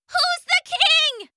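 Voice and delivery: very high tiny bug voice, taunting; buzzing gnat voice. Acted. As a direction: buzz it like a gloating gnat.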